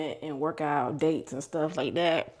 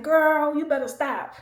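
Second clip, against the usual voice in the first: high, louder mock scolding; imitating the boss's playful scold; boss teasing; 9 semitones higher, 4 dB louder than usual. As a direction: tease her like a brash boss. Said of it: "he was like".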